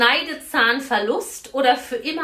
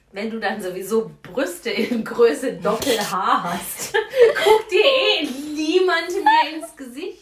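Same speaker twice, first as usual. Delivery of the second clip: laughing; slower than usual. Real, not acted. Joke about her, laughing through.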